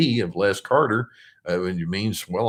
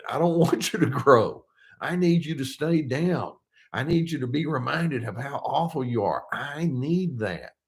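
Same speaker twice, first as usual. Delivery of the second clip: lightly voiced needy narcissist, pitched higher; mock narcissist demands; 5 semitones higher than usual. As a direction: insist with a hint of pleading control. Voices narcissist resisting your growth.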